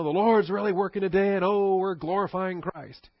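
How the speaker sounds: high, loud showy piety; mock pious gushing. Mocking a showy churchgoer, high pious gushing. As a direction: play the self-glorifying believer. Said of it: "and all this other excitement".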